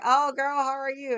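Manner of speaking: high, bright friendly gush; cheerful greeting. Retold or imitated. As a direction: greet an old friend happily. Bartender greeting her cheerfully.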